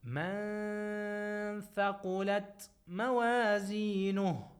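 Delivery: chanted tajweed recitation, held and measured; Quran recitation. Shown as a demonstration. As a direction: recite it slowly for the class to repeat. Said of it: "So you say".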